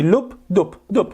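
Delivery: imitated split heartbeat. Shown as a demonstration. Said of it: "الصوت هذا الثاني".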